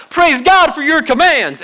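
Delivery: high, loud, slow burst of praise; slowed, jubilant mock praise; light and easy. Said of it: "Some days it's light and it's easy and I'm like".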